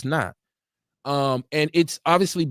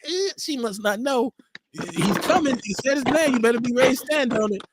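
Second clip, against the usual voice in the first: mock warning; 7 semitones higher than usual. Host imitating his own cringing reaction to a caller, mock warning. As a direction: tease her like you know what's coming. Mocking commentary about caller.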